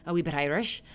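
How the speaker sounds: light playful Irish lilt; a quick dab of Irish accent. Shown as a demonstration. Actor naming accents to learn, Irish accent. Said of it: "I'd love to do Irish".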